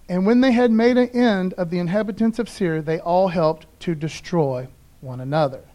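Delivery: measured Bible reading to the congregation; scripture reading. Acted. Pastor reads the passage to the congregation, measured reading voice. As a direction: read it out like the lesson.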